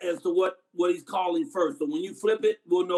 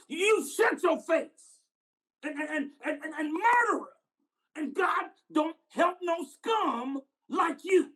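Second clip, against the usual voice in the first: hateful retort; 8 semitones higher than usual. Acted. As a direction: condemn him haltingly, stretching the key words. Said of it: "And the white said".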